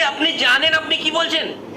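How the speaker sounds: ordinary delivery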